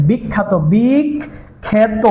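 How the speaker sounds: বিখ্যাত said very slowly, the এ drawn toward আ; slow pronunciation demo. Shown as a demonstration. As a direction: stretch out বিখ্যাত so the এ sounds like আ. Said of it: "এই যে একার আকার". (বিখ্যাত ধীরে টেনে উচ্চারণ, এ-কার আ-কারের মতো)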